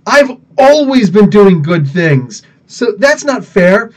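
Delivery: indignant comic-book character objecting; acted protest. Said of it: "he's like".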